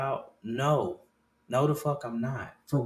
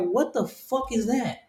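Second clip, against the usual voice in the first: put-on higher, slow, baffled kid voice; confused kid; 8 semitones higher, slower than usual. Kid seeing dad's floppy disk, higher and baffled. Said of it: "My kids gonna look at me like".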